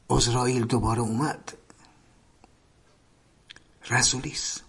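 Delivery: hushed fast warning whisper. Retold or imitated. Prisoner warning cellmates, hushed whisper. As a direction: breathe the warning so guards won't hear.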